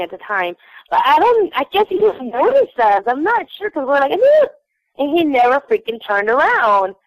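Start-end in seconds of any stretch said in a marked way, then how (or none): 4.1-4.5 calling out. Retold or imitated. Calling to distant star.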